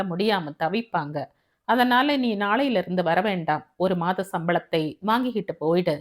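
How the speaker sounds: lightly voiced boss, reasoning firmly; firm employer. Boss tells newly rich peon to stop coming, firm and reasoned. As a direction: let him down firmly.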